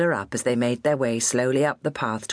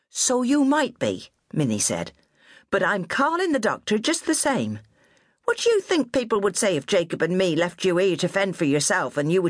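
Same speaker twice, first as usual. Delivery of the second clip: high, bossy West Country nanny voice; scolding old countrywoman; 7 semitones higher than usual. A narrator's reading. Old nurse scolding her fallen charge, high and bossy. Minnie refuses to give in.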